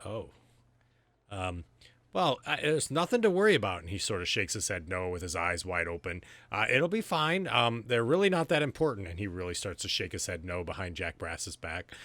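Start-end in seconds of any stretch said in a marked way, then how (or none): 2.1-9.1 nervous reassurance. Acted. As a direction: cover panic with cheer. Nervous NPC hiding worry.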